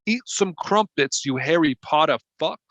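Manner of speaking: put-on Bill Clinton taunts the British judge in a Southern accent; Southern politician. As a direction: sneer at the Brit in a Southern twang. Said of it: "my name's Bill Clinton".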